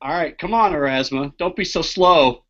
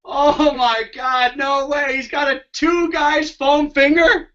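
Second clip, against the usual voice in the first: awed; 7 semitones higher, slower than usual. Real, not acted. Awed at the foam finger.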